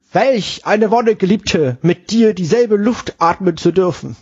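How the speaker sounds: slow, high, swooning groom; delighted bridegroom. Acted. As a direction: sigh it out like a smitten groom. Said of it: "entzückt den Duft des Bratens einziehend". (verzückter Bräutigam)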